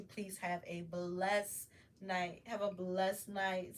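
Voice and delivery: slow, gentle sign-off blessing; real heartfelt goodbye, drawn out; tender blessing. Real, not acted. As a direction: bless the viewer slowly and kindly.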